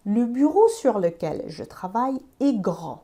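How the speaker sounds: Je travaille sur un grand bureau, read slowly word by word; slow French example. Shown as a demonstration. Teacher reads the French sentence slowly for learners. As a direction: spell it out slowly for the class. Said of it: "حالا این جمله رو ببین".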